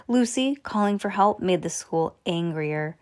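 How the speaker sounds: ordinary delivery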